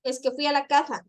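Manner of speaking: "caja" as "casa" lisped with a th-like Z; lisped demo, "caja" meaning "casa" said as "caza". Shown as a demonstration. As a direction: imitate someone turning the S of "casa" into Z. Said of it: "la S la utilizan como Z".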